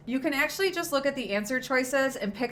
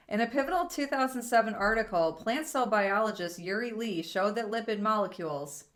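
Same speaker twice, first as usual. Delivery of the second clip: careful reading. Shown as a demonstration. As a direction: read it calmly so the pauses show. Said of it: "let me read it and see if you can hear where the pause is".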